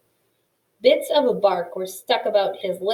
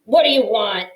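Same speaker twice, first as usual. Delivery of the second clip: demanding; 8 dB louder than usual. A narrator's reading. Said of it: "Mister Ocox demanded".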